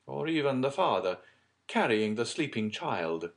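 loud, theatrical storyteller's character; dramatic count. Acted. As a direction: point out each grim detail with force. Plays Monte Cristo painting a soft picture.

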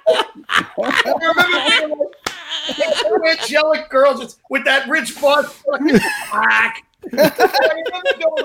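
talking through laughter; words broken by laughs; laughing. Real, not acted. Laughing while retelling the hack.

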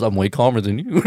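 low, understated mock calm; insisting he's calm. Veteran in the car claiming calm, understated.

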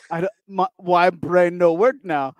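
slow caveman talk; dumb caveman voice. Retold or imitated. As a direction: play it slow and dim. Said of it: "it was very flat".

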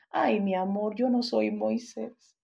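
tired, amused reply. Retold or imitated. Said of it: "se ríe en el cansancio y le dice".

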